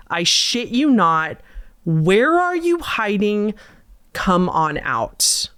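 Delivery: slow, teasing sing-song taunt; sing-songy voice. Retold or imitated. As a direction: coax them out in a creepy sing-song. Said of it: "in a sing-songy voice".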